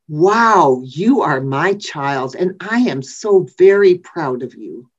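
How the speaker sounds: a light touch of a beaming parent, bursting out on wow; proud parent. Retold or imitated. Preacher imitating a parent after a graduation, mildly proud. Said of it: "God really sounds like a very proud parent".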